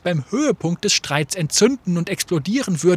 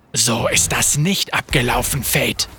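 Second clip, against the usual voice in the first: lower, grim and dark; 5 semitones lower than usual. Acted. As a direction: say it darkly, shutting him down. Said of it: "sagte Graves finster".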